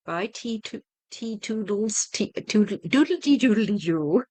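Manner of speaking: silly tongue-tumbling goodbye babble; playful sign-off. Real, not acted. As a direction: toss off a goofy, lilting toodle-oo.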